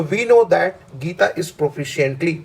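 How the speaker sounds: slow, deliberate reading of the sentence; slow dictation. Shown as a demonstration. Teacher reading a test sentence slowly to students. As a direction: read it out slowly for the class to follow. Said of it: "that के बाद आपको जोर लगाना है".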